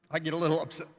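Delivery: a little choked up, holding it together; apologetic, with a slight catch of emotion. Real, not acted. Creator moved after three years' work, slightly choked up. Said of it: "choked up".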